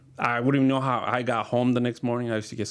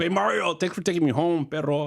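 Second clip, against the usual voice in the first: chummy call; 6 semitones higher than usual. Retold or imitated. Calling a friend.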